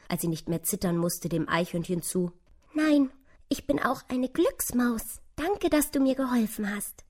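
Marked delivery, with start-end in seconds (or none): 2.7-7.0 high, happy little mouse voice; wispernde Maus. A narrator's reading. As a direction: speak small and high, like a relieved mouse. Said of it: "wisperte die kleine Maus". (hohes, zartes Mäusestimmchen)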